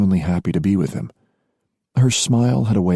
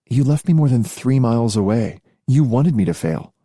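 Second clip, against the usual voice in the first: higher voiced, teasingly candid woman; young woman voice; 5 semitones higher than usual. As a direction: voice the heroine, lightly. Female character voice.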